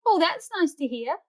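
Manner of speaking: warm. Acted. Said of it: "A warm voice floats".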